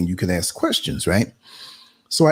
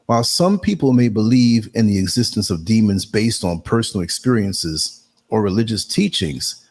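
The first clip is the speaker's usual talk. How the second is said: reading aloud; 3 semitones higher than usual. Real, not acted. Reads out an AI response.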